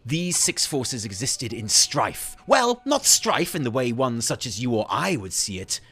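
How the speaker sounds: measured, weighty storytelling with emphatic swells; dramatic in-character reading; theatrical lore narration. Acted. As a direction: narrate like a musing scholar, weighing each word.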